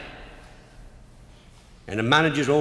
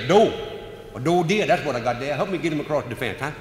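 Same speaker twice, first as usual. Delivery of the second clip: cheerful Murphy; 3 semitones higher, faster than usual. Retold or imitated. Murphy speaks cheerfully to the game warden.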